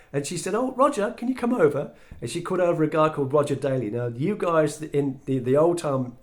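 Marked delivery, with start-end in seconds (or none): 0.5-1.9 much higher, louder call across the street. Retold or imitated. Tish calling Roger over, high loud call. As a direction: hail him from a distance.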